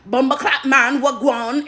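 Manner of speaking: deliberately bad put-on Caribbean accent; fake Caribbean accent. Shown as a demonstration. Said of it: "Clearly you're not from here".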